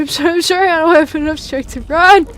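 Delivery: high yelp then rushed apologies; panicked apology. Real, not acted. Player apologising mid-chase in a high, panicked rush. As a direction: plead while fleeing.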